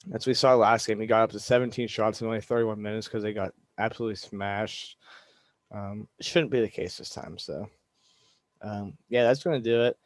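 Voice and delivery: talking through pain, careful mouth; hurts to talk. Real, not acted. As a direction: speak like it hurts to open your mouth. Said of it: "It really hurts to talk right now".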